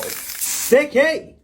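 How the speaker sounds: high-pitched playful catchphrase; high squeaky exclamation. Pretend. Catchphrase shouted at each sticker.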